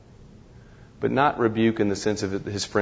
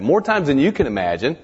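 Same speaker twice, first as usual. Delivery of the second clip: "More times than you can imagine" said louder and higher, stress on "More"; "More" hit hard and the rest pushed up in pitch and volume; emphatic repeat; 4 semitones higher, 5 dB louder than usual. Shown as a demonstration. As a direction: hammer the line home, louder and higher.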